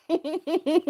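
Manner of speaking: high, breathy laughing question; laughing who. Retold or imitated. Reacting to Tia getting kicked out, laughing in disbelief.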